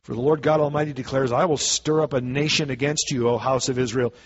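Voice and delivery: measured, declaiming Bible reading; scripture reading. Acted. Preacher reads Amos to the church, declaiming. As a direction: read the prophecy aloud to the congregation.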